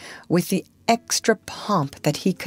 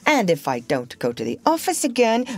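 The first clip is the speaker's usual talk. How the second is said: a hint of a stern warning, higher; 4 semitones higher than usual. Father warning mother about dinner, sternly. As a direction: lecture her gravely. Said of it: "he went on sternly".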